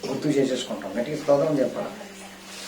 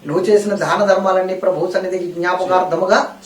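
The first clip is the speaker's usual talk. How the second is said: raised, fast, fervent sermon delivery; full-force preaching; 5 semitones higher, 6 dB louder than usual. Acted. Pastor pressing the congregation, preaching at full force. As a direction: drive the question home to the church.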